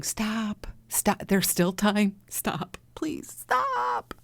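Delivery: high, drawn-out slow pleading; thin far-off plea from a small inner voice. Retold or imitated. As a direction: beg yourself to stop, stretching the final stop. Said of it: "that voice is there saying".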